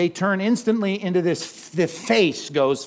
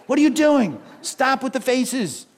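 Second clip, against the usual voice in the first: exasperated parent; 7 semitones higher than usual. Retold or imitated. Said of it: "I just wanna take my kid's face and fix it".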